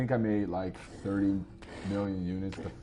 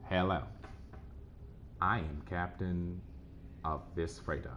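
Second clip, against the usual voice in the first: Cleveland voice; 6 dB quieter than usual. Acted. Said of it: "I'm gonna do this in a Cleveland voice".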